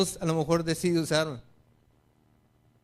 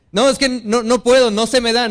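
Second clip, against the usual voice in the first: louder, higher, pleading excuse; insistent excuse; 4 semitones higher, 6 dB louder than usual. Retold or imitated. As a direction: raise it up, a touch more insistent. Repeats excuse, more insistent.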